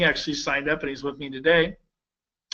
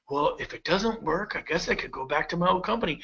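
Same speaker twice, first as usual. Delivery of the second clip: softer, half-hearted shrug of a voice; mock resignation; 5 dB quieter than usual. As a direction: imitate someone meekly falling back. Voices a hesitant agent's fallback.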